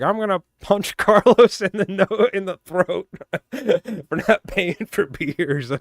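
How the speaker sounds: high, loud, laughing mock threat; retold threat. Coworker threatens Carlos over unpaid beers, laughing mock threat. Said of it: "He's like".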